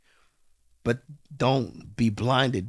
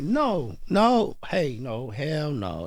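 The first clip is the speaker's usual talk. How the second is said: emphatic refusal; 4 semitones higher, much slower than usual. Retold or imitated. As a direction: refuse it flat out, voice jumping up. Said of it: "I'm like".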